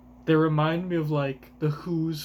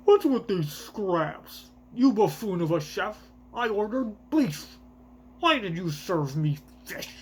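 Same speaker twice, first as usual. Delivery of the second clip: celestial dragon voice; 3 semitones higher than usual. Acted. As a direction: scold the chef like a pampered tyrant. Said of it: "I give the worst voices to all of the, uh, celestial dragons".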